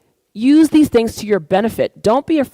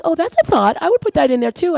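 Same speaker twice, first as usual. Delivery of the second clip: imitating mom; 9 semitones higher than usual. Mom's voice, impressed.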